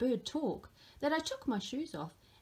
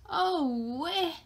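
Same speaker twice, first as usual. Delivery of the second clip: higher, louder startled cry; surprised exclamation; 6 semitones higher, 5 dB louder than usual. Acted. Papa finding nests in the shoes, surprised cry. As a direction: gasp it out in surprise. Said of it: "exclaimed Papa".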